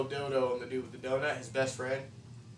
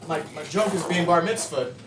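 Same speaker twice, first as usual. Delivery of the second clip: surprised; 4 semitones higher, 3 dB louder than usual. Retold or imitated. Character's surprised delight.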